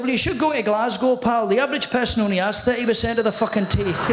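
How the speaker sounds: lightly voiced Scottish comic retort; Scottish impression delivering a punchline; Billy Connolly. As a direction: answer back as a Scottish comedian. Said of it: "And then Billy says to me".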